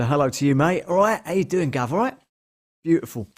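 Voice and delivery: lightly put-on London Cockney banter; Cockney geezer. Streamer greeting a viewer back in light mock Cockney. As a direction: play along with a hint of Cockney geezer. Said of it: "the London Cockney geezers".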